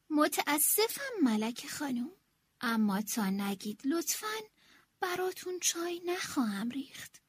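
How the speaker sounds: soft, sorry refusal sinking to a whisper; sorrowful. Acted. Servant sadly refusing the queen her tea. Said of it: "با اندوه سر تکون داد".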